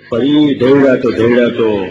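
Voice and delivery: mock stutter, slow and dragged on ધૈડાતો; a light send-up of the stammering reader; slowly stumbling over ધૈડાતો like a stammerer; imitating a stammer. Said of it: "જીભે તોતડા છે".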